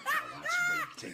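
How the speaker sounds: laughing, drawn out slowly. Real, not acted. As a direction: laugh it out, slow. Mocking weak joke, laughing.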